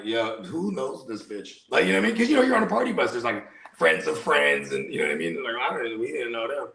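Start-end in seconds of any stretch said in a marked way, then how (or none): 0.0-1.6 slow, soft muttered aside. Retold or imitated. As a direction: mutter it under your breath. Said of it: "And I was like".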